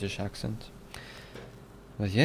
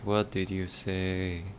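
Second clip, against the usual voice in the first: put-on slow, quiet Irish accent; Irish accent, drawn out slowly; 3 semitones lower, 5 dB quieter, slower than usual. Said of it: "I'm doing the Irish accent really well".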